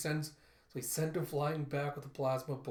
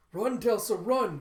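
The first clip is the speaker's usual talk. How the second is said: loud, raised-pitch warning cry; retold urgent shout; 8 semitones higher, 10 dB louder than usual. Mother warns daughter of the harvester, shouting urgently. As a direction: shout it to get the child running.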